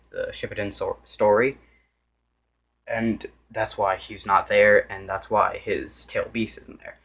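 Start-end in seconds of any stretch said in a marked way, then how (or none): 2.9-7.0 breathless, gasping between words; out of breath. Real, not acted. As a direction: talk while winded. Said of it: "I'm running out of breath here".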